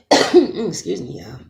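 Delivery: throat-clearing, slightly choked up; choking. Real, not acted. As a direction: clear the throat, then excuse yourself. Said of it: "Didn't wanna be choking up over here".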